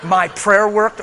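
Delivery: slow, laughing disbelief on "My prayer worked?"; "prayer" stretched in amused disbelief; incredulous laughing question. Shown as a demonstration. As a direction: scoff at the idea, drawing it out. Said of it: "Are you kidding me?".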